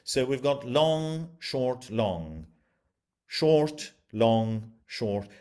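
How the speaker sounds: long and short called out one by one, like beating time; spoken beat by beat; rhythm read out. Shown as a demonstration. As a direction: count out the pattern of beats. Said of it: "the same number of syllables and the same number of beats".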